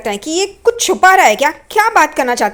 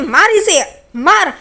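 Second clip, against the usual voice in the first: raised-pitch acted command; urging a beating; 5 semitones higher, slower than usual. Renuka orders him beaten, acted urging. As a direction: push the order out high.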